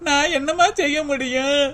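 tearful plea; a crying question to mother. Acted. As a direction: ask helplessly through tears. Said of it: "அழுகாதடி, அழுகாத".

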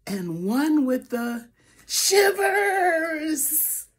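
slow trembling shivers; shivery voice. Acted. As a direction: quaver it like you're freezing. Bear with the shivers.

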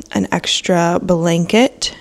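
words stretched through a yawn. Real, not acted. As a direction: yawn mid-phrase. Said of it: "Oh, big yawn again".

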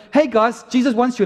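evangelist's call. Retold or imitated.

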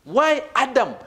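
"Adam" stressed as the contrast. Shown as a demonstration. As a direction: pick out "Adam" with a falling pitch. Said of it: "you know we are contrasting".

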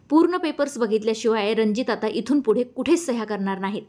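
calmly insistent; calm but firm. Acted. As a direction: hold your ground without raising the voice. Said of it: "Mira शांतपणे पण ठामपणे म्हणाली".

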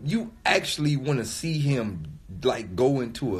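heated rant. Real, not acted. Heated rant about the album.

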